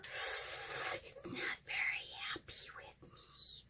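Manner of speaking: slow whisper nursing a burnt finger; burnt fingertips. Real, not acted. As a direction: hush it out, finger stinging. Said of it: "I just burnt my finger".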